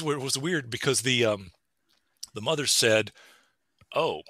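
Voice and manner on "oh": mock mildly affronted reaction; kind of offended. Mother told it's the way she talks, imitated as kind of offended. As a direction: imitate someone taken slightly aback. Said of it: "she was kind of offended".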